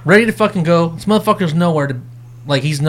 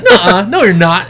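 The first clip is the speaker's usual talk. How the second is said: louder laughing no; laughing mock protest; laughing refusal; 5 dB louder than usual. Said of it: "I was like".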